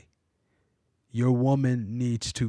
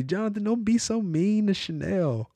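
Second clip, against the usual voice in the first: much higher, gentle scolding wife voice; wife telling her husband to be kinder, higher voice; imitating his wife; 8 semitones higher than usual. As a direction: pitch up and play the gently chiding wife. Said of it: "She's always talking like that".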